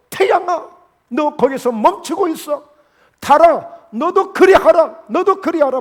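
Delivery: loud, high, drawn-out order to the heavens; slow, ringing imitation of a commander; acted command. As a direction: call up to the sun and moon, commandingly. Acting Joshua commanding sun and moon.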